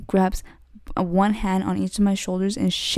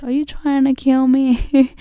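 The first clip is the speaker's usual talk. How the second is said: higher, slow, incredulous cry; retold disbelief at the rider; mock alarm; 6 semitones higher, 4 dB louder than usual. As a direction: act out the shock of being cut off. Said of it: "and I was like".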